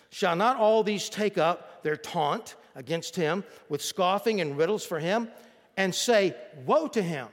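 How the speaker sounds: measured, emphatic scripture reading. Acted. Preacher reads the verse to his church, slow and weighty. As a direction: read the verse out to the congregation with weight.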